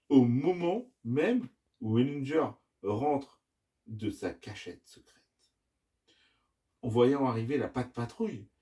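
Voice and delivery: put-on measured children's storytelling with lively phrasing; story narration. A narrator's reading. Dad reading the adventure to his children, story narration. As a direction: tell the tale, pausing between phrases.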